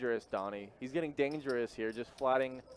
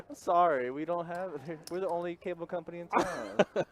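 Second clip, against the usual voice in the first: Comcast guy voice; 6 semitones higher than usual. Acted. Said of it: "the South Park, uh, Comcast guy".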